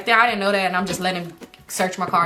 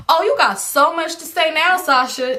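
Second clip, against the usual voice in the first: sarcastic callout; 8 semitones higher, 4 dB louder, slower than usual. Real, not acted. Calling out friend sarcastically.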